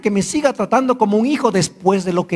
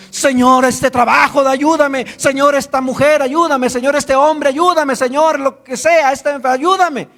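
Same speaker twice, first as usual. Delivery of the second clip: raised, pleading little chant to God; mock needy prayer; 4 semitones higher than usual. Preacher mimics needy believers praying: pleading. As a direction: beg the Lord for anything, half-mocking.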